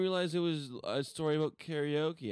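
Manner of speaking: a silly character voice, hammed up; weird voice. Podcast host goofs off in a weird voice to his co-host. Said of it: "can you stop with the weird voices".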